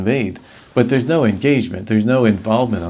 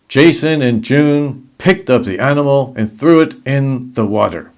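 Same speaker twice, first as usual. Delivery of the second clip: louder, emphatic delivery; 3 semitones higher, 3 dB louder than usual. Shown as a demonstration. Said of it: "if you say it like this".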